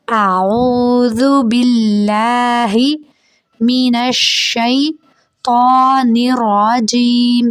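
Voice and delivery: drawn-out chanted tajweed recitation; slow Quran recitation. Shown as a demonstration. Teacher reciting slowly for the students. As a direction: recite slowly, stretching each word. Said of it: "پھر سے پڑھیں گے".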